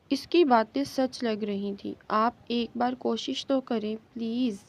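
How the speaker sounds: ordinary delivery, nothing marked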